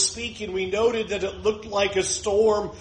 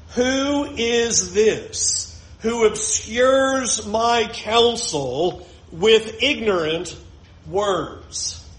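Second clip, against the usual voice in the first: slow voice of God; much slower than usual. Acted. God's voice read from Job.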